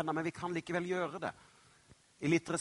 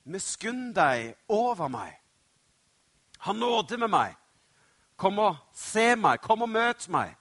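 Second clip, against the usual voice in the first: raised, pleading call for mercy; imploring, getting louder and higher; 3 semitones higher, 5 dB louder than usual. Acted. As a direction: beg a passer-by to stop and notice you. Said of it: "så roper han".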